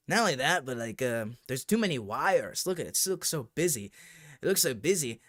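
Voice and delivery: a light put-on accent, mocking the guy; lightly voiced mock accent for the clueless YouTuber. Mocking a YouTuber asked about VR, light put-on accent. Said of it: "I'm adding the accent 'cause I think it's more fun".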